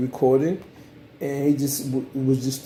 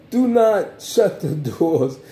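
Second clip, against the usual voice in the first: laughing warning; 3 semitones higher, 3 dB louder, much slower than usual. Acted.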